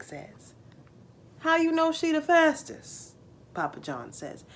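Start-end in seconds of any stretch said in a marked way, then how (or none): 1.4-3.1 put-on eager boy. Jake's voice in dialogue.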